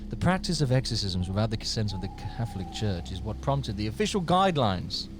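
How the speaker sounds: measured, mock-solemn accent; menacing put-on accent. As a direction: read it like a sinister proclamation. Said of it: "I don't know why I'm going with this fucking accent".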